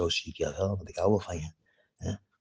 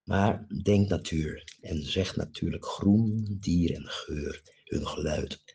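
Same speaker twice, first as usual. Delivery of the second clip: slow, dreamy nature poem; poem recital; 3 dB louder, slower than usual. Acted. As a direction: paint the landscape slowly with your voice. Draagt natuurgedicht voor. (langzaam, dromerig gedicht voordragen)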